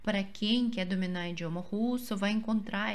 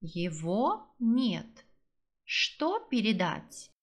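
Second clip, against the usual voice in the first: frase lenta para repetir; much slower than usual. Shown as a demonstration. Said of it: "Frase número dois".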